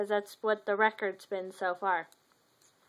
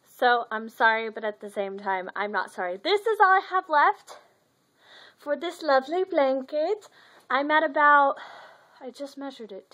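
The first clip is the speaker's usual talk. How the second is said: talking with a retainer in; lisping through a retainer; 2 semitones higher than usual. Real, not acted. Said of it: "I have my retainer in, so I have a ridiculous lisp right now".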